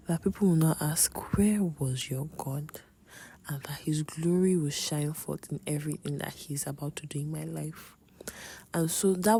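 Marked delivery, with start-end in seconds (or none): 0.1-7.9 hushed prayer. Real, not acted. Quoting her prayer.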